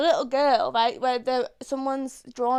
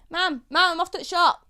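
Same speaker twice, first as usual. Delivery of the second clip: put-on Yorkshire accent; 5 semitones higher than usual. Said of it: "we used to like".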